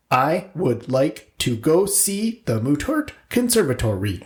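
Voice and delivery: slow, monotone robotic line. Retold or imitated. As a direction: read it like a stiff robot. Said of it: "Can you say this any more robotic".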